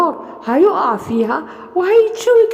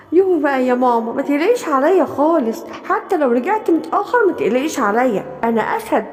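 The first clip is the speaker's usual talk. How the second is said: lion cub. Acted.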